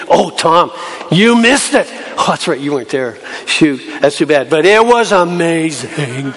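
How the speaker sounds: eager, bright telling of news; excited friends. Acted. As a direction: gush to a friend who missed it. Disciples excitedly telling Thomas.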